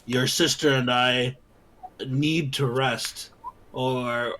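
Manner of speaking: firm insistent adventurer; firm character voice. Acted. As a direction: speak firmly, pleading for rest. Character argues with Ismark.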